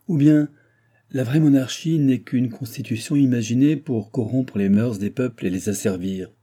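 mock-quoting with an emphatic attack; ranting old baron. Baron quoting philosophers he despises to his guest, scornful tirade. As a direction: throw the maxim out scornfully.

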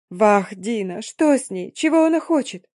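alarmed cry. Acted. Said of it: "вскричала Мэри".

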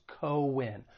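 co-win as two syllables, not coin; two separate syllables. Shown as a demonstration. Teacher correcting coin, co-win in two distinct syllables. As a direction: split co-win clearly into co and win. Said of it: "two different syllables".

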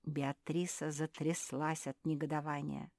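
plain reading voice

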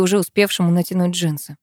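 plain reading voice

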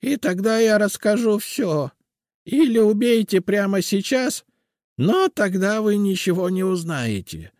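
high, loud frantic bargaining; desperate old witch. A narrator's reading. Captured witch bargains with her captors, desperate. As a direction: bargain for your life.

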